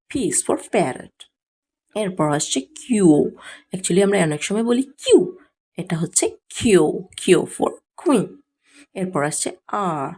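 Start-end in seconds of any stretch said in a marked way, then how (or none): 0.1-1.2 slow drill. Shown as a demonstration. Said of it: "slow teaching drill". 7.2-8.3 slow drill. Shown as a demonstration. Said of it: "slow teaching drill".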